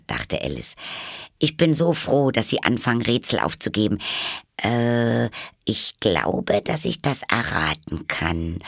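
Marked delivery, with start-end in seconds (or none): 1.4-8.6 high, raised start that settles; speaking up aloud. Acted. Alice welcomes the riddles aloud, starting high and settling. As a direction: speak up, then ease to normal. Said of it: "fuhr sie laut fort".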